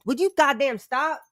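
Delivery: high, exasperated snap at someone nearby; sharp scold. Real, not acted. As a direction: cut them off, fed up.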